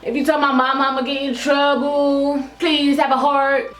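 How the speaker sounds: badly faked crying, words dragged out; mock bawling. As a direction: imitate a kid begging tearfully. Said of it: "So she's there crying, bawling".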